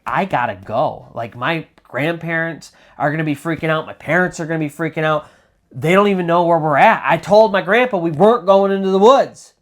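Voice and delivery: freaked out. Retold or imitated. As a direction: voice the boy's rising freak-out. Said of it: "he is freaked out".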